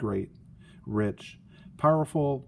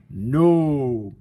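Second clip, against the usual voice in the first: firm no; 7 dB louder than usual. Acted. Sister rejects them firmly.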